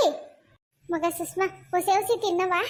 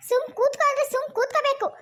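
higher-pitched cross order; stern scolding; 4 semitones higher than usual. Acted. Mother orders Sushma to sit still, scolding. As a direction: order her firmly to obey.

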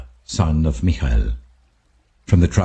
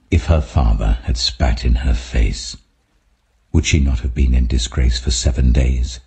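lower, solemn voice of God; voice of the Lord; 6 semitones lower than usual. Acted. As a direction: speak as the Lord, low and grave. The Lord answers Moses.

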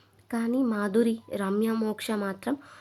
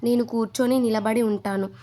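making a scene; 4 dB louder than usual. Retold or imitated. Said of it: "Madhuri రచ్చ చేసింది".

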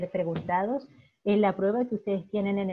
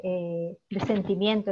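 usual speaking voice

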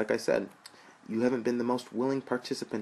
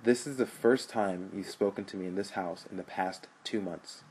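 angry brother; 2 semitones higher, 4 dB louder than usual. Acted. Rich berates brother.

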